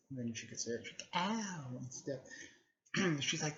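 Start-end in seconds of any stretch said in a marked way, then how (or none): 1.2-1.8 high imitated yelp; light, pitched-up cry of pain; mock pained "ow". Character gets hit in the story.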